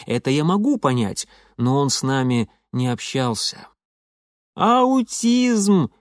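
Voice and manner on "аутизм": gurgle the word out proudly; gurgling. A narrator's reading. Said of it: "выговаривал хищник".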